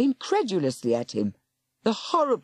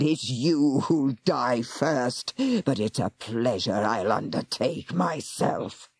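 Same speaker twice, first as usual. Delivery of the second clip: growled; 4 semitones lower than usual. Acted. Warlock promising to kill her, low menace. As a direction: savour the threat. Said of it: "he growled".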